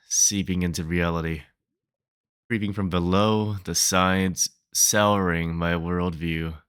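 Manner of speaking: expressive spoken-word recital with rising and falling phrases; poem reading. Acted. Poet confessing despair at months without a job, poem reading. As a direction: perform a poem of growing despair. Reads own poem aloud.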